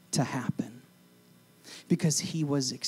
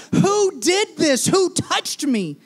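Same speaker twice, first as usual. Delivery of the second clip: higher, louder, slow demand; demanding question; 7 dB louder, slower than usual. Acted. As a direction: insist on an answer. Jesus demanding in the crowd.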